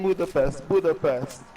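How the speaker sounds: "Budapest" repeated with a plain s; English pronunciation. Retold or imitated. Mimicking films that keep saying it, English pronunciation. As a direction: say "Budapest" the English way, ending -pest. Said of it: "they keep saying".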